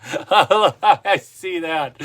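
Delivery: real laugh through the words; chuckling at a viewer's comment. Real, not acted.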